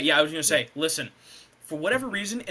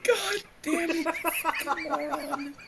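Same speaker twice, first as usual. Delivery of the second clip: laughing groan; 10 semitones higher, 4 dB quieter, slower than usual. Real, not acted. Laughing at an offensive joke.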